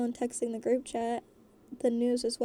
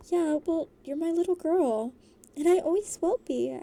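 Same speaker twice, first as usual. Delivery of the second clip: protesting dad; 5 semitones higher, 4 dB louder than usual. A narrator's reading. Dad protesting to his daughter.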